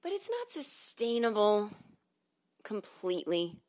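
stretched, gliding syllables; over-careful, sustained delivery; voice-coach correct speech. Shown as a demonstration. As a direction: draw the words out as in a vocal exercise. Demonstrating the unsustainable trained speech.

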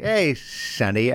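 slow, lightly voiced cartoon gopher. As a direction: drawl it like an old gopher. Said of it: "He's like".

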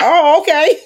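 high, laughing mock surprise; startled okay. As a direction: act caught off guard, giggling. Mock startled reaction quote.

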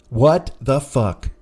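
slow, dragged-out disbelief; weary comic disbelief; deflated. Real, not acted. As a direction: let it sink in slowly.

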